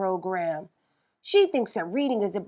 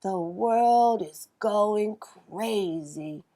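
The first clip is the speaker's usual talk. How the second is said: dry remark; 3 dB quieter, much slower than usual. Acted. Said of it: "said Jamal".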